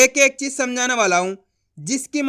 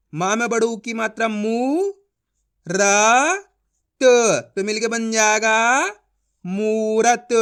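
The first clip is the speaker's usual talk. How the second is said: syllable-by-syllable sounding out; slower than usual. Shown as a demonstration. Teacher shows a class how to blend letters, slow and spaced. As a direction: separate each letter with pauses, then blend into मूरत. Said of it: "मैं किस तरीके से ... पढ़ रहा हूँ".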